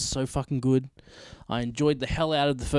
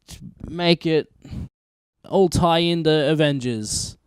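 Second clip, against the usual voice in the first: louder, pumped-up boardroom hype; mock studio execs; 5 dB louder than usual. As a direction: play the eager executives. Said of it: "they were like".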